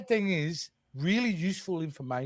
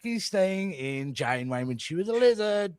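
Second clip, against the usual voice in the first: higher mocking Australian jab; Aussie mockery; 5 semitones higher than usual. Australian crewman mocking Paris, higher jeer. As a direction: sneer it like an Aussie larrikin. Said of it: "we would just mock him".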